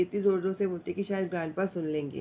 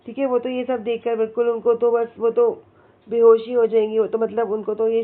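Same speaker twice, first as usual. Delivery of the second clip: dramatic outburst; 7 dB louder, much faster than usual. Retold or imitated. Mother fainting at grandpa's treats.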